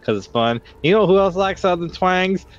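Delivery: fun-loving Southern twang. Pretend. Player handing over to a fellow twang fan, Southern twang. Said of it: "I'm just falling into the Southern twang".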